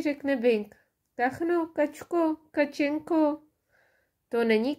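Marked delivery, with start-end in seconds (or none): 1.2-3.4 calling ducks. A narrator's reading. Bing calls the ducks.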